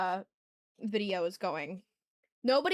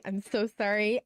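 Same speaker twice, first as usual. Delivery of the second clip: talking through a mouthful; mouth full; 2 semitones lower, slower than usual. Real, not acted. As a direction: apologize while chewing. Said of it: "I'm eating".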